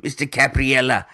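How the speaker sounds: a playful Indian accent take on the name. Shown as a demonstration. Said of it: "I can say my name in an Indian accent really well".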